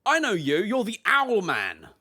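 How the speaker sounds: gasp, then point him out; surprised recognition. Acted. Bard player recognizing Benjamin, surprised.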